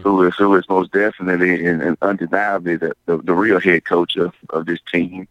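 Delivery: hoarse, slightly slurred speech; raspy and a bit slurred. Real, not acted. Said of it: "my voice sounds a little, little raspy and my words slur".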